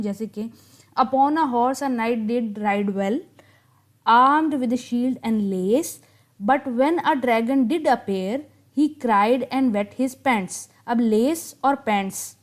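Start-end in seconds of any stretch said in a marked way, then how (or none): 1.0-10.7 very slow, measured poem reading; poem recital. Shown as a demonstration. Teacher reading a ballad stanza to students, slow recital. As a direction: read each line out slowly, letting the rhythm show. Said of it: "मैं आपको पढ़ के सुनाती हूँ".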